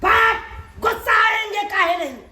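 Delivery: furious demand; angry shout. Acted. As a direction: yell it in outrage. Asked why he is angry.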